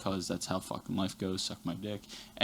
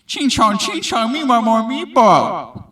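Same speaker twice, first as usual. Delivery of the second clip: put-on loud, high caricature of an Asian accent; mocking stereotyped Asian accent; 11 semitones higher, 10 dB louder, slower than usual. Coworker complaining at the counter about customers, mocking Asian accent. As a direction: offensive mock Asian accent, drawn out at the end. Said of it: "not appropriate accent".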